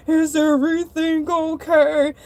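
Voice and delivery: lightly voiced store manager; a hint of a concerned manager. Manager checking on the winded shark, lightly voiced. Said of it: "here comes the manager".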